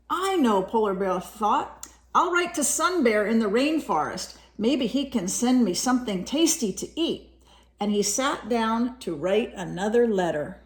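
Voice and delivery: lively storybook reading voice; reading to children. A narrator's reading. Parent reading a picture book to a child, lively storytelling. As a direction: read it brightly to a young listener.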